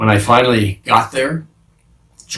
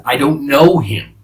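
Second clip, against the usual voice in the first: mock scream; 5 semitones higher, 6 dB louder than usual. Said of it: "So I screamed at them".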